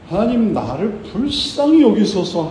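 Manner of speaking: high-pitched acted supplication; earnest pleading. Blind beggar begs God for mercy, pleading. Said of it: "하나님께 간구하는 사람이었지".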